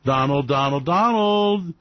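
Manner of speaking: slow drawn-out Donald, Donald; mock worried adviser; pleading with Donald. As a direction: coax him gently. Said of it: "And I go sit down and go".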